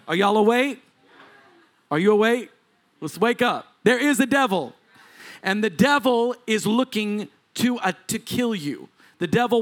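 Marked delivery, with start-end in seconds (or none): 0.1-4.7 raised voice, pushing for a response; rousing call. Real, not acted. Preacher asking the congregation if they are awake, rousing. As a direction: call out to wake up the room.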